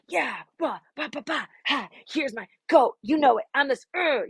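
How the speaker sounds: brushing it off like it's nothing, playful brag; mock cocky swagger. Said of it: "I'm so used to being like".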